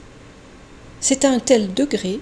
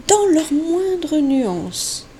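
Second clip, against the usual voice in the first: very slow; 3 semitones higher, much slower than usual. Shown as a demonstration. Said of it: "lentement, très lentement".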